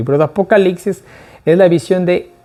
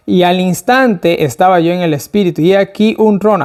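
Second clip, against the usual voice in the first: scripture reading; 3 semitones higher than usual. A narrator's reading. Preacher reading the verse to the study group, declaimed reading. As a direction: read out the verse in a raised, declaiming voice.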